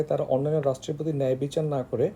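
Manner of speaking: ordinary talk, nothing marked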